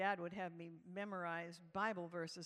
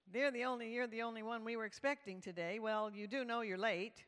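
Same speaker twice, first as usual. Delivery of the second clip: imitated keen youth leader, a little louder; enthusiastic youth leader; 2 semitones higher, 5 dB louder than usual. Youth leader tells the newcomer she is late, enthusiastic. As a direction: play a chirpy, tactless group leader. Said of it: "enthusiastic, but very unenlightened youth leader".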